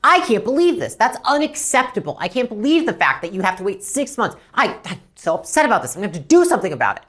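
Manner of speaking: acting outraged on a customer's behalf; worked-up, emphatic show of outrage; mock upset. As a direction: play up the indignation, out-upset the customer. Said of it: "more upset than that person".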